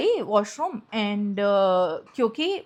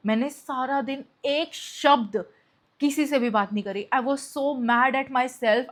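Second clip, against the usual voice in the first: ordinary talk, nothing marked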